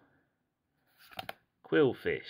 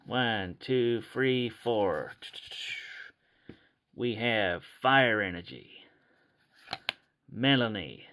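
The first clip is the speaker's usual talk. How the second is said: put-on amateur cowboy-style American accent; dodgy American accent; slower than usual. Collector revealing cards to viewers, dodgy American accent. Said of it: "gonna try my best American accent".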